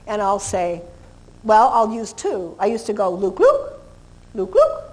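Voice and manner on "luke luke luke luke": repeated name, really high; dog-calling Luke, high and tonal. Shown as a demonstration. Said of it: "but really high".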